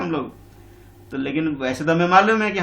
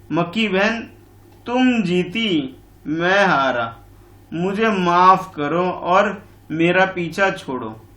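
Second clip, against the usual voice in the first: slow, weary lion pleading to be left alone; fed-up lion; 3 semitones higher, 4 dB louder, much slower than usual. Acted. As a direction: drag it out like a worn-out lion. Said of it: "परेशान होकर के, ऊब कर बोल रहा है".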